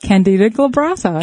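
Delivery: "Candida glabrata" said in full, KAN-di-da gla-BRAH-ta; careful "Candida glabrata" with four syllables in Candida; correct pronunciation. Shown as a demonstration. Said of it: "No, glabrata".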